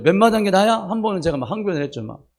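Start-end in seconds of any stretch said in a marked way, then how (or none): 0.0-0.7 Jeolla dialect. Retold or imitated. Son protesting to his mother in Jeolla dialect. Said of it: "전라도 사투리로".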